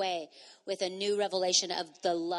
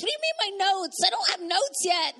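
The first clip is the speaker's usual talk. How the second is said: mock panic; 13 semitones higher, 6 dB louder than usual. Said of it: "And Marco's saying".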